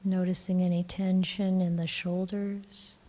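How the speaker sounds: calm, even meditation voice with long pauses; guided meditation. Acted. Teacher guiding the group to relax the body, calm meditation voice. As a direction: gently guide them into relaxing, leaving long silences.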